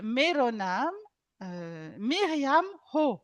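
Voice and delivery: slow, careful Nepali phrase; slow teaching demo. Shown as a demonstration. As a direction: say each word slowly. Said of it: "Je vous expliquerai pourquoi après".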